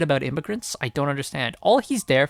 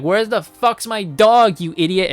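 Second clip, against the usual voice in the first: put-on drunk party girl; 4 semitones higher, 5 dB louder than usual. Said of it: "she's drunk party girl Supergirl".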